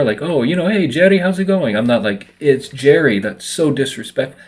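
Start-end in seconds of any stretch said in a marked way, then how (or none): 0.2-1.8 greeting pitched up, "Jerry" with a rolled R. Retold or imitated. Imitating foreign-born friends greeting him, rolled R in "Jerry". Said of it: "if they roll my R". 2.4-4.4 mock offended. Mock offended correction of friends.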